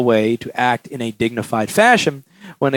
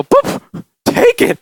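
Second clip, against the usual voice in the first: high, louder, hammed-up rejection; exasperated refusal; 8 semitones higher, 5 dB louder, slower than usual. Repairer handing the customer's phone back, loudly exasperated. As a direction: push it away loudly, in mock desperation.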